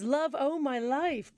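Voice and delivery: "Love, oh my life" drawn out very slowly; slow mock Brad quote. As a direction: stretch each word of "Love, oh my life" in mock awe. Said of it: "Them's big words".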